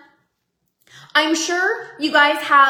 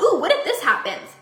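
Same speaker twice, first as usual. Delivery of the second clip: giddy wonder. Retold or imitated. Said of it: "With my health".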